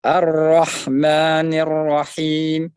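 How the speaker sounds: slow, loud Ar-Rahmanir Rahim; measured recitation. Shown as a demonstration. Teacher reciting the verse for students. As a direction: recite it firmly and slowly. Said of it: "Jangan dipanjangkan melebihi".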